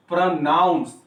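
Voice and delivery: प्रोनाउंस with a strong, distinct "naauns"; प्रोनाउंस said carefully, second syllable stressed; pronunciation demo. Shown as a demonstration. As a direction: model प्रोनाउंस firmly, leaning on the second syllable. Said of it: "आप voice देख लीजिए".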